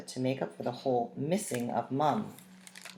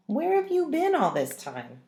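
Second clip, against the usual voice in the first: much higher indignant question; demanding; 12 semitones higher than usual. A narrator's reading. Sister scolding dad for being gone so long. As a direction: demand an answer, high and indignant.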